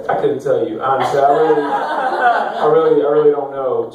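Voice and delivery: low, sluggish, hungover mumble; groggy hungover body. Acted. Hungover body answering the brain, groggy. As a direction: answer with a sigh, low and worn out.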